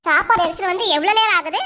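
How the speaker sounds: a mildly stern scolding elder sister. Acted. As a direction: push her to eat, sternly. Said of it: "ஏங்கா அதட்டுற".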